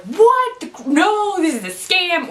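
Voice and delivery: husband balking at the psychic's fee, high and outraged; shocked outrage. Retold or imitated. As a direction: blurt it out like you've been cheated. Matt reacts to the price.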